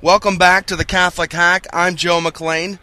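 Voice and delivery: upbeat announcer read of guest bio; radio host intro. Real, not acted. Host reads formal guest intro.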